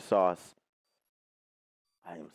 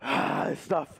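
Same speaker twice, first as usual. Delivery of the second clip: mouth burning from spicy food; slower than usual. Real, not acted. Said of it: "my throat is burning".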